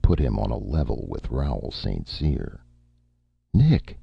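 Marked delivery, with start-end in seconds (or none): 3.5-4.0 high, shaky cry of fear; quavering. A narrator's reading. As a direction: quaver his name. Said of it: "Erica quavered".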